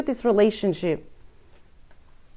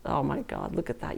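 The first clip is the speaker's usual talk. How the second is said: much softer, amazed under the breath; hushed amazement; 5 semitones lower, 11 dB quieter than usual. Real, not acted. Reader spotting the Star card, in hushed amazement. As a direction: let it slip out in quiet wonder.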